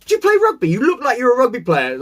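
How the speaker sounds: mock friendly chat. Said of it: "I'll chat to them in the gym, like".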